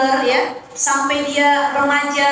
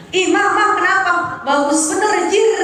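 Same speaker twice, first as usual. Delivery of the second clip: imitating a rough father; 5 semitones higher than usual.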